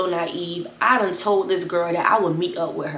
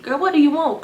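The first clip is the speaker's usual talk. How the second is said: higher, louder, fed up; annoyed phone answer; 8 semitones higher, 4 dB louder than usual. Retold or imitated. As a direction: pick up and snap. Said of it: "I'm like".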